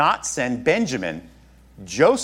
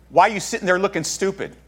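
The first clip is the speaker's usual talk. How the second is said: fast, blunt paraphrase of an annoyed father; King Joey version; 3 semitones higher, faster than usual. Retold or imitated. Father scolding his idle sons, fast and blunt. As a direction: rush it out like an exasperated dad scolding sons. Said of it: "That's the King Joey version".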